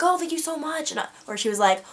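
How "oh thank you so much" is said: high-pitched imitation of a grateful girl; imitated thanks. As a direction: thank them in a lifted, put-on voice. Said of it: "she thanked me".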